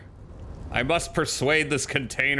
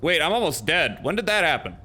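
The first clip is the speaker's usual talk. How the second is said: higher-pitched, alarmed surprise; startled disbelief; 6 semitones higher, faster than usual. Real, not acted. Player spots health nearly gone, startled disbelief. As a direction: blurt it out in sudden disbelief.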